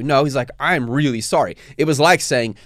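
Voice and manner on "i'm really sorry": earnest apology with weight on REALLY; mean it simply and firmly; sincere apology. Retold or imitated. Engineer owning his offense, sincere. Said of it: "The sincerity in his voice".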